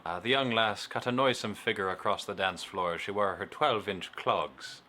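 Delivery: mock old-country accent; weird accent. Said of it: "I don't know why this is weird accent hour".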